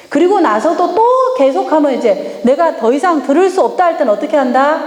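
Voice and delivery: ordinary delivery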